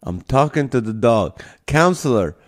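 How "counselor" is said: loud call across the room; calling the dog. Pretend. Hosting a livestream, calling an imaginary dog by name, loud mock call. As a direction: shout for the dog to come over.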